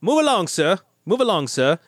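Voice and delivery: half-hearted British policeman; lightly attempted London bobby accent; London bobby's British accent. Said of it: "Give me a better accent".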